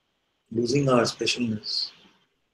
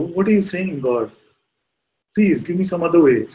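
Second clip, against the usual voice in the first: high, louder protesting plea; acted begging; 6 semitones higher, 5 dB louder than usual. Man begs God for another way, acted pleading. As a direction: plead with God, in mock desperation. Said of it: "he keeps begging and praying".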